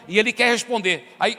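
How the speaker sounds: usual speaking voice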